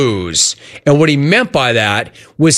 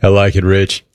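a hint of Rich's lower voice, carried over into the question; 5 semitones lower than usual. Host teasing Tommy, still lightly in Rich's voice. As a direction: keep talking in Rich's voice by accident. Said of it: "I'm still talking with Rich's voice".

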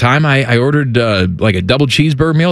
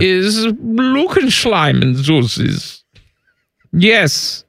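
put-on German accent; much slower than usual. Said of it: "Hi, Wolfgang".

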